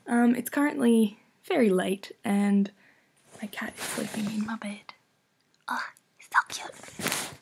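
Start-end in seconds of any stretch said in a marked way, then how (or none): 3.4-7.4 soft whisper at night. Real, not acted. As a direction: whisper so the family stays asleep. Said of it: "I have to be a bit quiet".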